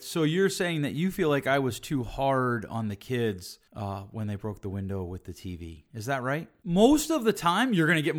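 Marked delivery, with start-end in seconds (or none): 0.0-6.5 good listening demo. Shown as a demonstration. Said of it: "Good listening would be responding with".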